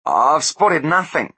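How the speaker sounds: high and loud, slow, scared denial; shaky fear. A narrator's reading. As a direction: deny it while terrified. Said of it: "said Blunt shakily".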